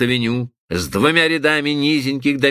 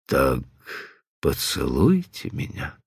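low intimate request; 12 semitones lower, 6 dB quieter than usual. A narrator's reading. Man asking for kiss.

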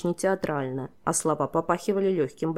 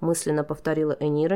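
plain reading voice

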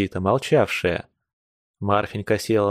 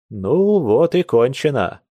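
slow, glad closing line; loud and merry; 3 semitones higher, slower than usual. Acted. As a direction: settle it cheerfully. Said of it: "громко и весело сказал он". (громко и весело)

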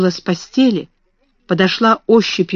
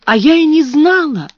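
plaintive; 8 semitones higher, 3 dB louder than usual. A narrator's reading. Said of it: "жалобно проговорила Эрменгарда".

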